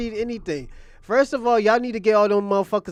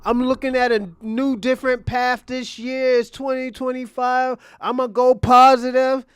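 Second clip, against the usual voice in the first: slow, louder, sarcastic mock promise; mocking Adin Ross; 2 semitones higher, 3 dB louder than usual. Vlogger mocks Adin Ross's new-year promise, sarcastic and slow. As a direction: ham up his fake turnaround with scorn. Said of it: "when he said".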